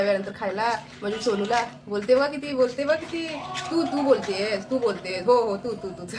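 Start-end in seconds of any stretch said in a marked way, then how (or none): 1.9-6.1 lightly raised, teasing pet talk; playful pet talk. Real, not acted. Owner telling her talking bird it is the one talking, playful. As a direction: tease the chattering bird.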